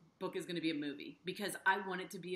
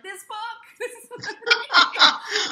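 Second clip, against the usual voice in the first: high, much louder answer bursting into laughter; laughing; 18 dB louder than usual. Retold or imitated. Host telling her family about the book, laughing loudly. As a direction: laugh it out with glee.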